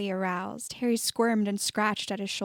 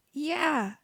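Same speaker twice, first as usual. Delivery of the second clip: through gritted teeth; 6 semitones higher than usual. A narrator's reading. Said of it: "through his teeth".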